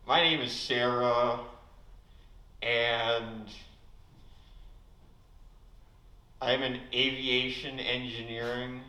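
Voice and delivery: lightly voiced, loud greeting; slow deadpan ending, mock introduction; Sarah Moening impression. Comedian mimics a female friend for laughs, lightly voiced. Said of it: "Next is my impression of Sarah Moening".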